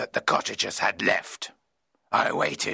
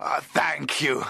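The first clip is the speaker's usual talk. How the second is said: slow, slightly raised exclamation; grateful cry; 4 semitones higher, slower than usual. Acted. Traveler thanks the old man, grateful cry. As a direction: cry out thanks, a little higher. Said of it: "I cried".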